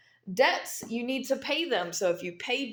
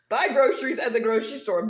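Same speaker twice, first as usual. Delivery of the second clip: laughing; 6 dB louder, faster than usual. Real, not acted. Laughs while urging shopping.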